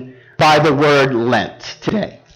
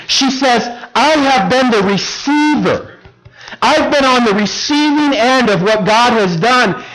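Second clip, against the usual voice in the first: higher-pitched, insistent preaching; earnest preaching; 4 semitones higher than usual. Acted. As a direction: press the point home to the congregation, pitched up. Preacher builds to his point.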